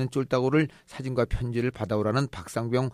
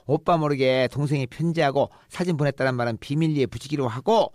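higher, louder gloating tease; teasing sister; 5 semitones higher, 3 dB louder than usual. Acted. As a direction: rub it in gleefully.

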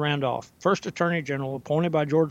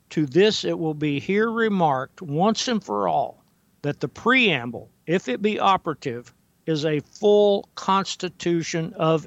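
deliberate reading with pauses between phrases; slow careful reading. Real, not acted. Host rereading the quote so it sinks in, slowly and carefully. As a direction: read the quotation out with measured care. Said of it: "let me read it one more time".

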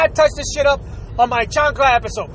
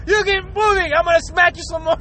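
scolding mom; 4 semitones higher than usual. Retold or imitated. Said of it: "so now she gotta repeat herself".

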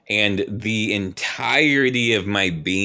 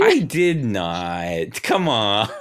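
drawn-out laughing denial; mock protest; much slower than usual. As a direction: stretch out a playful objection. Mock denial of making her cry.

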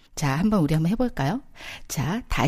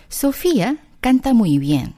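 a touch faster second take, still slow; slow repeat; 2 semitones higher, 4 dB louder, much slower than usual. Shown as a demonstration. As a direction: repeat it slowly for learners. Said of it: "라고 한다면".

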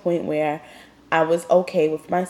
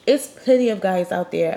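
congested, sniffling voice; stuffy nose. Real, not acted. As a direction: talk through a stuffy nose. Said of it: "I'm sorry if I'm sniffling".

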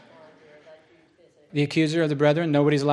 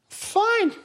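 very high-pitched, petulant giving in; huffy surrender. Retold or imitated. Preacher giving in to his colleague, high huffy squeal. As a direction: squeal it out in a huff.

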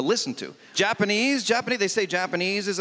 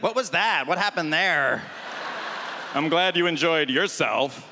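pizza voice. Pretend. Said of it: "the pizza's not gonna be like".

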